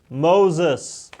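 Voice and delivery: lightly voiced divine call; God voice. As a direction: call again like God, gently insistent. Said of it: "that's my God voice".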